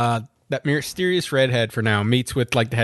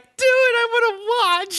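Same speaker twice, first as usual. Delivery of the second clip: mock egging on. Host voices the sister lying in the balls, mock egging on. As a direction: squeal the urging, drawing out the end.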